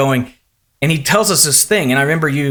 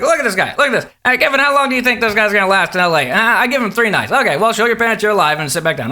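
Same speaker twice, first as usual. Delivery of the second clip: higher, lightly mimicked host banter; Jay; 5 semitones higher than usual. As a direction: poke fun at the guest for the crowd. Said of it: "he's like".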